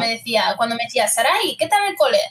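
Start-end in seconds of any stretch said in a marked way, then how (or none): 1.1-2.2 a lightly voiced mother asking casually; relaxed everyday mum greeting; mother, not angry. Mother greeting her daughter home from school, easy and casual. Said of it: "sabía si mi madre estaba enfadada o no".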